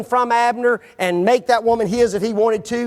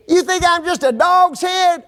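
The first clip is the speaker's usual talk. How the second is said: high, louder hurt outrage; offended retort; 11 semitones higher, 4 dB louder than usual. Acted. Abner to Ishbosheth, insulted and louder. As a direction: fling it back, insulted.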